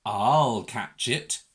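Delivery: slow, low big-dog voice. A narrator's reading. Big dog eyes runaway Mog, slow low resolve. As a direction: take it low and steady, drawn out. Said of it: "thought a big dog".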